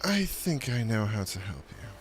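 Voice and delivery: light shopkeeper elf voice; a hint of an elvish merchant. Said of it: "He sounds like an elf".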